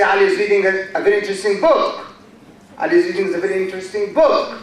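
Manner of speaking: "is" and "a" said quick and low, stress on the content words; reduced function words. Shown as a demonstration. Teacher shows a class how function words go unstressed, reduced function words. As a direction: run quickly over "is" and "a", land on "book". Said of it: "we say is and a in a very low voice".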